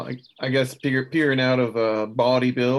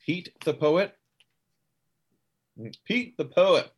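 higher, mildly theatrical wondering; lightly voiced actor; 6 semitones higher than usual. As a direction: repeat a name with a touch of actorly wonder. Player voices Quentin's reaction.

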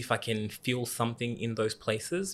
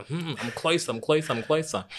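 imitated inner voice; 5 semitones higher, 3 dB louder than usual. Voicing her own inner thought.

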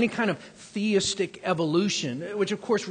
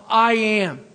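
loud proclamation; 2 semitones higher, 6 dB louder than usual. Acted. Preacher proclaims God's name.

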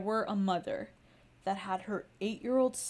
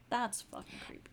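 creeped out; 11 dB quieter than usual. Real, not acted. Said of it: "that's creepy".

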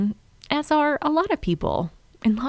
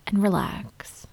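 soft spa whisper; 3 dB quieter than usual. Acted. Leads autumn dream visualization.

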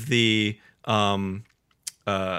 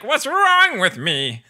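high, slow villain lament; Skeletor; 10 semitones higher, 3 dB louder, slower than usual. Retold or imitated. Villain puzzled by his kindness, high mock anguish. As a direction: wail it in mock self-disgust. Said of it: "He's like".

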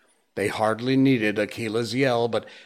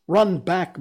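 urgent call; 8 semitones higher, 5 dB louder than usual. Acted. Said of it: "Mowgli urging Messua away".

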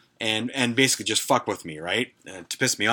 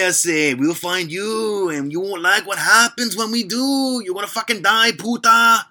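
high, slow fake Latino gangster accent, louder at the end; bad Latino gangster accent; 11 semitones higher, 5 dB louder than usual. Prank caller promising to find Jay in a fake Latino gangster accent. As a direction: menace him in a terrible Latino gangster accent. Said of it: "terrible Latino gangster accent".

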